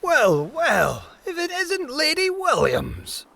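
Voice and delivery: hearty captain's boom, pitch swooping high; booming greeting. A narrator's reading. Captain hailing Lady Williams across the ship, booming. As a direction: boom out a theatrical welcome in a character voice. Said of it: "he boomed".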